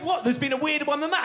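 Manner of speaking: high, loud astonished yelp; amazed disbelief. Retold or imitated. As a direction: blurt it out in disbelief. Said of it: "and he said".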